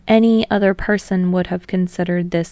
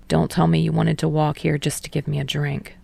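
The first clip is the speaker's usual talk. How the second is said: low, softer, dry tease; dry teasing; 3 semitones lower, 4 dB quieter than usual. Acted. Tsukishima teasing Hinata about the visit, low and dry. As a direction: needle him lightly.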